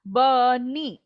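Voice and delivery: BUNNY drawn out in two equal beats; robot talk. Shown as a demonstration. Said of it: "I talk like a robo".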